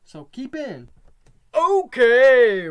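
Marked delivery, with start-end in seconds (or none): 1.5-2.7 excited okay. Real, not acted. Excited restart of the show.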